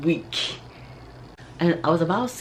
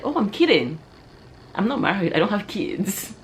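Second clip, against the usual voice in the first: protesting retraction; 6 semitones higher than usual. Acted. Woman taking back her joke to her crush, protesting. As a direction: insist it was only a joke.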